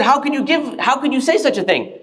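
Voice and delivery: retold reproach, mildly angry; a bit angry. Other scholar objecting to Imam's answer, a bit angry. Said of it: "he's a bit angry".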